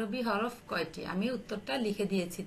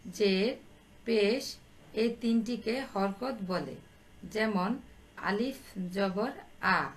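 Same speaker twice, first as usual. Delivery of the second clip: word by word, pausing after each item; slow dictation; slower than usual. Real, not acted. Teacher giving pupils the answer to write down, slowly. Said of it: "আমি উত্তরটা তোমাদের বলে দিচ্ছি, তোমরা খাতায় লিখে নাও".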